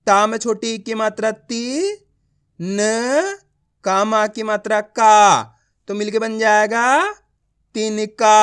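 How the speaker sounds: slow blending drill landing firmly on तिनका; letter-by-letter reading. Shown as a demonstration. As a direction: build तिनका piece by piece for pupils. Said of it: "आप इस तरीके से उच्चारण करोगे".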